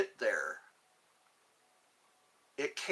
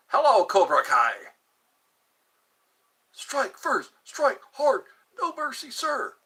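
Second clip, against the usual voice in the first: lightly voiced sensei chant, higher; Cobra Kai greeting; 7 semitones higher, 6 dB louder than usual. Streamer greeting chat with the Cobra Kai motto, mock sensei. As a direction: bark the motto like a dojo drill, pitched up. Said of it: "I always say that".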